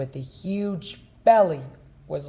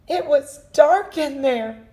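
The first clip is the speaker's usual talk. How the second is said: higher, louder relieved voices; high rescued voices; 10 semitones higher, 6 dB louder than usual. Acted. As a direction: tell it shaken. Rescued pair speak.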